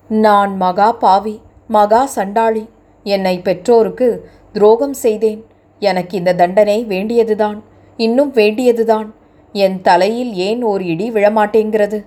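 tearful self-reproach. Acted. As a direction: confess your sin through held-back tears. Weeping girl blames herself.

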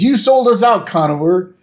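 high, loud accusation; mock-furious Homer; hammed-up betrayed shout; Homer angry. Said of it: "He says".

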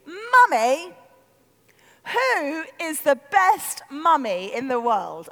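put-on slow, declamatory child's announcement; announcing little daughter. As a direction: announce it grandly like a small child. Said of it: "Daisy doesn't talk. She announces".

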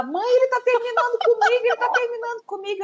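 high, whiny daughter's wail through a laugh; imitating crying daughter. Mother imitating her daughter crying over a breakup, high and whiny. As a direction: play the heartbroken teen, half laughing.

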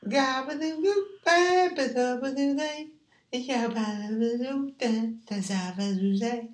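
very high babbling scat; high silly voice. Pretend. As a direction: bounce the nonsense syllables up high. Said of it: "don't change your voice".

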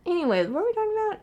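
quick, high nervous laugh. Real, not acted. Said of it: "All this laughing is nervous laughter".

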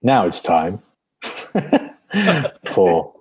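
drawn-out jingle intro with long pauses; mock theme announcement. Co-host standing in for the theme tune, mock announcement. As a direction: announce it in pieces, pitch jumping about.

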